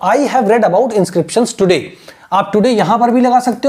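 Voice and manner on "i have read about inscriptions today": very slow, each word spaced out; teacher modelling slowly; slow model sentence. Shown as a demonstration. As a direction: say it slowly for learners to copy. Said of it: "तो".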